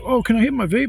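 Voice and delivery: high, loud wheedling imitation; mock pleading. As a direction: imitate an arrested drunk begging a favor. Imitates arrested neighbor pleading.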